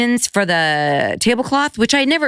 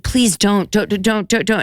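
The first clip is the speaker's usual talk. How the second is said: retold pleading; 4 semitones higher than usual. Mother pleading with her children.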